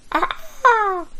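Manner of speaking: short high honking cry; a sudden goose-like honk; mock honk. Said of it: "The honking call of a person".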